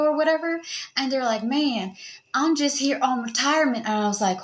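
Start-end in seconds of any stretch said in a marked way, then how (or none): 1.4-3.9 lightly imitated Southern US accent. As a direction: mimic a Southern retiree, lightly. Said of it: "somebody that has a southern accent".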